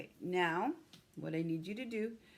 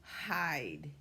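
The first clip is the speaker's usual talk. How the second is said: each word spaced out, "The" louder; slow word by word; 3 dB louder, much slower than usual. Shown as a demonstration. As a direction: dictate one word at a time. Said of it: "Four, four words".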